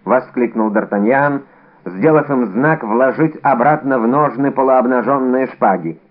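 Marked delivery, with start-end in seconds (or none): none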